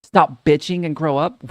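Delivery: lightly hammed-up stern dad; mock stern dad. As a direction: snap it like a fed-up father, slowly. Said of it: "And you tell him".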